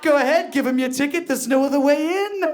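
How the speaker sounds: put-on high old man voice. Retell what your amped-up nephew said, giving him an old Jewish man voice. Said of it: "he sounds like an old Jewish man".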